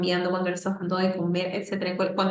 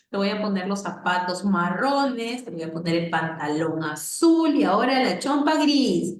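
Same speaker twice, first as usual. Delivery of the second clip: put-on describing to a child; 3 dB louder than usual. Shown as a demonstration. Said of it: "nunca en diminutivo".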